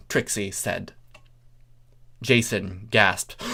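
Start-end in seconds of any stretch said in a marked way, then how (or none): none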